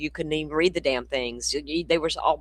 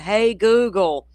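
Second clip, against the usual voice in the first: loud, high, drawn-out mock yell; imitated phone yell; 7 semitones higher, 8 dB louder, slower than usual. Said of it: "He would yell into it".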